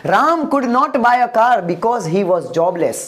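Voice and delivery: slow, careful English sentence; slow model sentence. Shown as a demonstration. Teacher models the English sentence slowly for students. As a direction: say each word slowly for the class to copy. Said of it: "example देखते हैं।".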